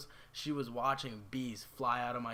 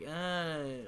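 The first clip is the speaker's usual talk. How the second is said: higher-pitched mock whine; whiny little brother; 3 semitones higher than usual. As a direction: imitate a kid brother's whine. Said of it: "getting this little whiny voice with me".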